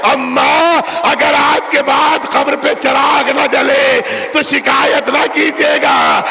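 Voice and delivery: wailing goodbye at the grave; grieving farewell. Acted. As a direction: cry it out as a parting daughter. Daughter's farewell to mother.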